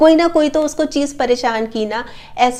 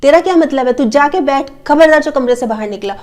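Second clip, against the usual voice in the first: scolding parent. Retold or imitated. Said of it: "उसको उल्टा ही डांट दिया".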